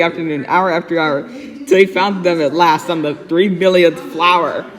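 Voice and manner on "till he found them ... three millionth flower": ordinary delivery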